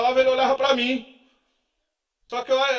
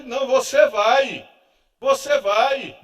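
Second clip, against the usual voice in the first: firm insistence; 6 dB louder than usual. Retold or imitated.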